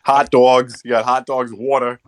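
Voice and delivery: light New Jersey vowels; a touch of playful New Jersey; New Jersey accent. Shown as a demonstration. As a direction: lean a little into the Jersey accent. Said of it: "let me do your, your, your accent".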